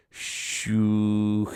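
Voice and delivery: slow, odd, mumbled voice; an odd, slow mumble; peculiar mumbled syllables. A narrator's reading. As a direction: mumble it strangely and slowly. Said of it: "With a peculiar emission of syllables".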